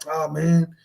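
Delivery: lightly voiced drunk man; a hint of a drunk vouching for a pal; imitated drunk. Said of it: "He's so borracho that he's all like".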